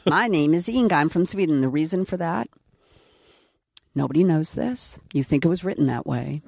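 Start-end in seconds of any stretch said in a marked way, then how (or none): 0.1-1.6 lightly put-on Swedish accent; mock Swedish accent. Actress re-enacting her Inga line for the interviewer, mock Swedish accent. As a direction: play a comic Swede with a light accent.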